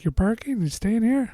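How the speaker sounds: put-on high, lightly accented questions; light Asian accent. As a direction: imitate a mild Asian accent. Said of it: "had, like, an Asian accent".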